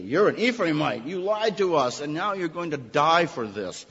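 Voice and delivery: mock-stern accusation; accusing verdict. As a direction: pronounce the death sentence. Gileadites catch the liar.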